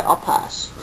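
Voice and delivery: whispered refusal. Acted. Camel turning down the nuts, whispering. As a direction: breathe it out, no voice.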